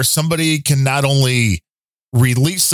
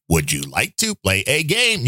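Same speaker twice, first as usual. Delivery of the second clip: lightly voiced flat computer; a hint of a movie computer reading; cyborg voice; 3 dB quieter than usual. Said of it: "great cyborg impression".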